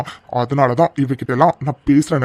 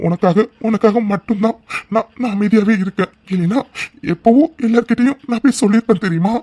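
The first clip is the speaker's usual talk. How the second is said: put-on wounded innocence, rising higher; fake pitiful victim; 3 semitones higher than usual. Aravind to Aara, faking hurt innocence. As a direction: play the hurt victim to win her sympathy. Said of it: "வழக்கம் போல உன் ஆக்டிங்க போடு".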